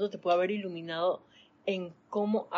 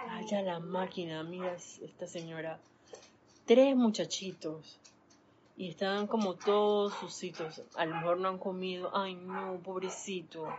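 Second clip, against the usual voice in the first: mock pity. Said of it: "la lástima está muy relacionada".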